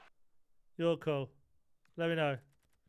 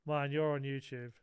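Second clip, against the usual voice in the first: mock threat. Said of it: "That sounded like a threat to me".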